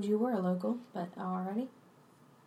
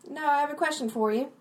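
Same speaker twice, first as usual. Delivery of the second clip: imitating the barmaid; 6 semitones higher, 5 dB louder than usual. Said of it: "trying to sound like me".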